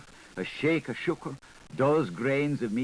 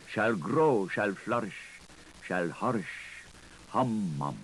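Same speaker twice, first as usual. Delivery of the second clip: prayer. A narrator's reading. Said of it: "he laughed at Hales and prayed".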